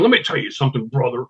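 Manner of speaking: Hulk Hogan. Retold or imitated. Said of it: "I do Hulk Hogan".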